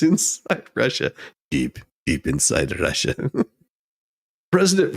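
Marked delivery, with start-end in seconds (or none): 1.5-3.1 lower, quieter, mock-dramatic; deep and quieter, mock menace; mock ominous. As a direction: play it darkly for a joke.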